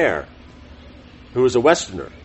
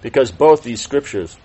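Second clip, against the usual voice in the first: measured reading of a religious text; formal read-aloud. Real, not acted. Teacher reading scripture summary to class, formal read-aloud. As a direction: read it out clearly, phrase by phrase.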